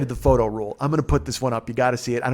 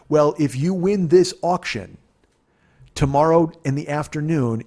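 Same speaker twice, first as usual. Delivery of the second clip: higher, louder, slow auction-host voice; auctioneer pitch; 4 semitones higher, 4 dB louder than usual. Retold or imitated. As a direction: sell the prize to the crowd like a TV host. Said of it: "he narrates the whole thing".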